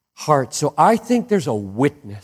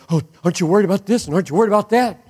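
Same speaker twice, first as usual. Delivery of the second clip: quick, fretful mock worry, higher; nervous fretting; 5 semitones higher, much faster than usual. Friend fretting to wife about the future, rushed mock worry. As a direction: rattle it off like a worried friend. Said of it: "Somebody gets all nervous".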